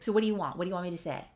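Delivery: mildly irritated, curt questions; retold anger. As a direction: act out a touch of anger. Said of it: "he just launches into anger".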